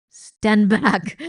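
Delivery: loud order to the crowd; commanding. A narrator's reading. Rat ordering the other rats back. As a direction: push them back with your voice. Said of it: "Botticelli told them, still laughing".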